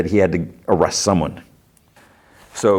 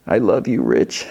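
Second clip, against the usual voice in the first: hoarse voice; 2 semitones higher than usual. Retold or imitated. Marge from inside the fridge, lightly imitated hoarse voice. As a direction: start raised, sink into a mock-hoarse croak. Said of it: "in a hoarse voice".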